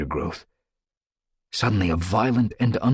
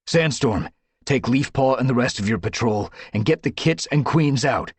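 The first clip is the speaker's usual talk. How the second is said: higher, loud orders; ordering; 6 semitones higher, 4 dB louder than usual. Acted. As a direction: command the patrol. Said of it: "he ordered".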